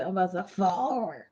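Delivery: tipsy birthday excitement. Real, not acted. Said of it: "I'm just a little bit tipsy".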